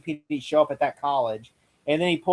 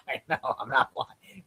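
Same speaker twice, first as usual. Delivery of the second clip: deadpan retort; 4 semitones lower, 8 dB quieter, slower than usual. Retold or imitated. Repeats the gunman's line.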